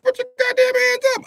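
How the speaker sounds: high, loud police command; cop's shout. Acted. Police kicking in the door, yelling. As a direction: bark it at the suspect.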